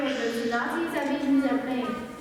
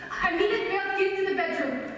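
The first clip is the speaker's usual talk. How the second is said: angry order; 6 semitones higher than usual. Acted. Ordering Bert into the bedroom, angry and raised. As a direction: order her out of the room, fiercely.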